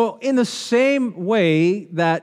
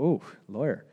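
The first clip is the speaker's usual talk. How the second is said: impressed ooh; 6 semitones lower, 9 dB quieter than usual. Retold or imitated. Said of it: "we'll go".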